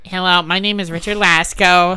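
weird solemn host voice; overly grand introduction; mock grandeur. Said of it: "This is worse".

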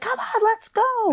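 shrieky pitch at a held-back volume; imitated scream. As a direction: imitate a panicked mother urging haste. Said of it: "'cause she's screaming".

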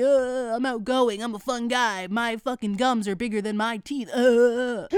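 lightly voiced goofy dude; mock him as a dopey fun guy; a hint of a goofy bro; goofy guy impression. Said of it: "The goofy".

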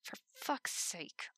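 soft, slow whispered grumble; muttered curse. Acted. Levi muttering as everyone gathers, whispered curse. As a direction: hiss it under your breath. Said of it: "Levi muttered".

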